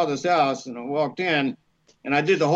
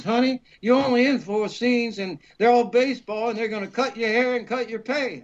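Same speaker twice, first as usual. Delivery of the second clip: lightly voiced agent; 6 semitones higher than usual. Voices his Chicago agent.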